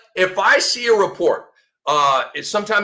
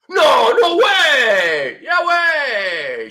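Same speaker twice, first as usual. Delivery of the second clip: mock disbelief; 6 semitones higher, 3 dB louder, much slower than usual. Mock disbelief at injury news.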